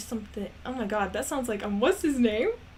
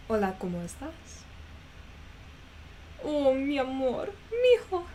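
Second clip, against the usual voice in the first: put-on Spanish accent; 4 semitones higher than usual.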